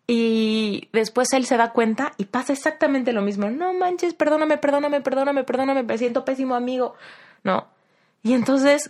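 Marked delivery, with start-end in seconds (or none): 3.5-6.9 pitched high, pleading apology with perdóname over and over; frantic apology. Retold or imitated. Friend who forgot her birthday begging to be forgiven, high pleading apology. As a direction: beg forgiveness in a high, rushed voice.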